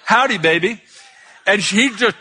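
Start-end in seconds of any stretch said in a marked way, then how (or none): 0.1-0.8 lightly imitated Texan greeting; a hint of Texas twang; Texas accent. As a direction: do a mild mock Texan howdy. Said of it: "it was in a Texas accent".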